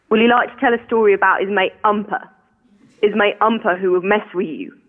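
lightly voiced Cockney dad telling a yarn; dad's Cockney. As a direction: drop the aitches in a light Cockney imitation. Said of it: "something that I heard my dad say a lot".

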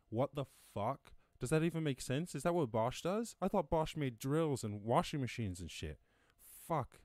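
high, loud disbelieving rant; can't believe what he's reading; stunned outburst. Real, not acted. Host reacting to Bosch news, loud incredulous outburst.

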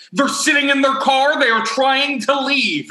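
a touch of agitated reporting; lightly voiced uptight man. Uptight man reporting the kids to police, mildly agitated. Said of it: "very uptight man".

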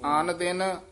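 ਆਨ drawn out, then ਦਿਨ apart; ਆਨ ਦਿਨ split. Shown as a demonstration. Teacher showing correct reading, ਆਨ ਦਿਨ split apart. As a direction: say ਆਨ ਦਿਨ as two words, not ਅਨਦਿਨ. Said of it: "ਅਨਦਿਨ ਨਹੀਂ ਕਹਿ ਦੇਣਾ".

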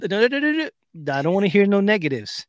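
high, loud string of refusals; dad cutting her off. Retold or imitated. Dad stops his daughter's protest, emphatic retold interruption. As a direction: override the objection, mock exasperated.

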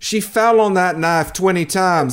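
a touch of mock indignant defence; inmate's defensive sweetheart. Lady excusing the convicted boyfriend, mock defensive. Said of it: "I don't know why they have that accent".

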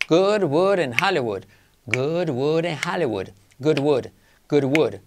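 slow, careful tongue twister practice; slow drill. Shown as a demonstration. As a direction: spell out each word slowly. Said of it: "esto que practiques". (trabalenguas lento y marcado)

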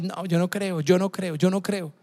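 soft, stubborn "yo no creo" repeated; quietly acting out an unbeliever; doubter's quiet refusal. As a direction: mutter the doubt like a closed-off skeptic. Preacher voices a doubting listener.

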